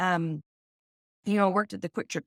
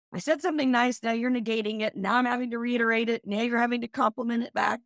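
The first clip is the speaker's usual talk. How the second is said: mock exasperation; 5 semitones higher than usual. Describing the awkward compliment spiral, mock exasperated and raised. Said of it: "where you're like".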